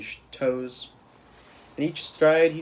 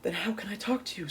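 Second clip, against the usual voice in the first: soft high whisper; 7 semitones higher, 6 dB quieter than usual. A narrator's reading. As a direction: hush it, puzzled. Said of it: "Sophie whispered".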